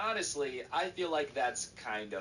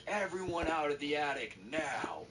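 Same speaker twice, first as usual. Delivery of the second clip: higher-pitched stern order, not shouted; stern, pissed grandpa; 5 semitones higher than usual. Retold or imitated. Grandpa orders everyone out of the attic, mild anger. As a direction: lay down an order that is not kidding. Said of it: "the grandpa's pissed".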